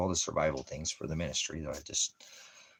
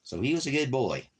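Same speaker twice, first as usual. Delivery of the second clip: pet talk; 8 semitones higher, 6 dB louder than usual. Real, not acted. Praising the dog.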